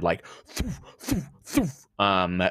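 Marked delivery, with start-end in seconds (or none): 0.5-1.3 imitated bolt fire. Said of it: "huge ballista bolts being fired".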